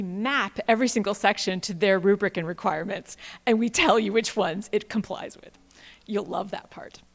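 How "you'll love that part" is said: whispered aside. Real, not acted. Presenter whispering an aside to the audience, hushed. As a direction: lean in and whisper it.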